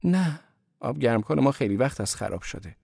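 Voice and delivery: a hint of a young woman's voice; Marie's voice. A narrator's reading. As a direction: voice Marie explaining herself. Marie replies.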